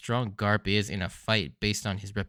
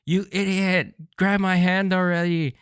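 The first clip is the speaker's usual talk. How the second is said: higher, louder mock yell; shouting Luffy; 7 semitones higher, 4 dB louder than usual. Reviewer voices Luffy yelling at Usopp, hammed-up. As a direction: bellow it like a crying captain. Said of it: "as he shouts".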